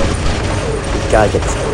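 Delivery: slow whispered mutter; whispering. Real, not acted. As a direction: whisper it to yourself, slowly. Repeats it under breath.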